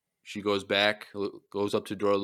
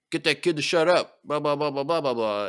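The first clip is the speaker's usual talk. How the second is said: a hint of a gruff cowboy, louder; mock gruff bounty hunter; 6 semitones higher, 5 dB louder than usual. Bounty hunter barking at his droid, lightly voiced gruff order.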